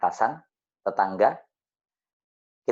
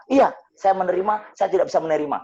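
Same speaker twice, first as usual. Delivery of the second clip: higher, louder echo in the widow's voice; widow repeating; 7 semitones higher, 4 dB louder, faster than usual. Retold or imitated. Widow echoing the speaker's prayer, higher and louder. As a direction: repeat it back as the upset widow. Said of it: "Saya mengikuti dia dulu".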